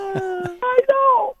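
high, giggling agreement; laughing. Real, not acted. Caller agreeing with the host, laughing. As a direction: still laughing at her own joke.

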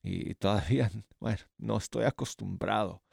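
with braces. Real, not acted. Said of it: "co-, tengo braces".

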